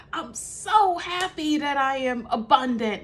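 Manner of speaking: shouted high and loud, furious yet saying happy words; angry affirmation. Retold or imitated. Retelling the reverend's angry affirmation, loud furious shout. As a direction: snap the affirmation out like you're enraged. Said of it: "he would get angry and say".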